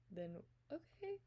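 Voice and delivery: slow breathy whisper; hushed okay. Retold or imitated. Retelling a confused text reply, slow whisper. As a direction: whisper it slowly, unsure.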